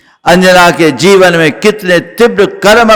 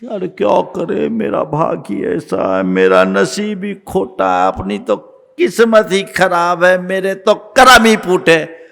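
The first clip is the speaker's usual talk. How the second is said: self-pitying lament. Acted. People complaining of rotten fate, self-pitying lament. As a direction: bemoan your luck in resignation. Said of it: "ऐसा कह करके क्या हासिल करोगे".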